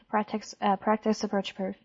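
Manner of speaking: crackly military radio. Real, not acted. Air traffic radio call.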